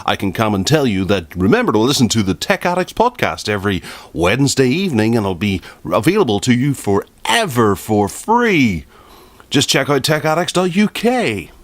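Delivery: upbeat radio DJ plug, up close. Shown as a demonstration. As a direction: sell it like a late-night radio host. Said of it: "talking like a radio D J".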